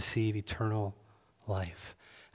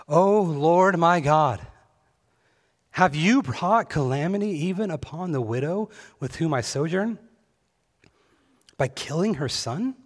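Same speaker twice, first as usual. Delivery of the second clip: crying out to God; 6 semitones higher, 5 dB louder than usual. A narrator's reading. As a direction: call upward in a desperate plea. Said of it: "he cried to the Lord".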